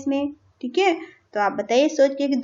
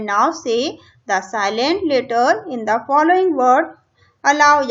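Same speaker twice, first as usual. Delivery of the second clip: reading English instructions slowly, word by word; slow textbook reading; 3 dB louder, much slower than usual. Shown as a demonstration. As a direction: read it out deliberately for the class. (किताब से धीरे-धीरे पढ़ना)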